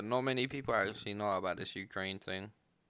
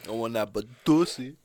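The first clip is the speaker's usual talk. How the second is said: loud joking; 12 dB louder than usual. Pretend. Joking lust shout.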